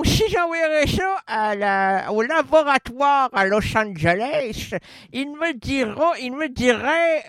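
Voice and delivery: talking with a pencil in the mouth; pen in teeth. Real, not acted. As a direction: speak round a pencil held in the mouth. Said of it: "C'est bien dit avec le crayon dans la bouche".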